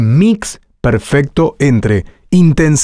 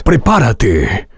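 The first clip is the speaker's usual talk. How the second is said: intense higher read; slower than usual. Shown as a demonstration. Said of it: "un prepárate más intenso más arriba".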